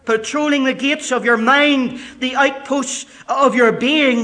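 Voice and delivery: high, loud, ringing preacher voice; full-force pulpit delivery; fiery preaching. Acted. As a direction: preach it hard to the back row.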